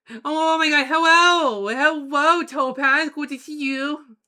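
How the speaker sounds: high, loud happy hello; excited greeting. Real, not acted. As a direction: greet a friend with delight.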